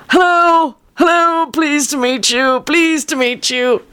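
a tiny friend chirping hellos; Tony the puppet voice. Retold or imitated. Father voicing grandfather's toy friend Tony greeting the baby, high and squeaky. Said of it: "His name is Tony Harrison".

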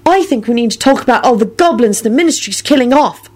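high, insistent voice; heated Luna. A narrator's reading. Luna raises the Ministry's goblin killings, heatedly. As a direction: press the point urgently. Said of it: "Luna said heatedly".

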